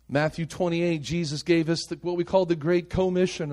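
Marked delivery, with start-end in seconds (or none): 2.6-3.5 "Commission" with weight on its first syllable; stress on CO. Shown as a demonstration. Preacher stressing partnership with Jesus, "Co" emphasized in "Commission". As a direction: lean on "Co" at the start of "Commission". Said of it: "I'm emphasizing the word co".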